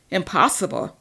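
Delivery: vampire scoffing at his rival's doubt; scoffing echo. Acted. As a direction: throw the word back mockingly. Marcus scoffs at the word.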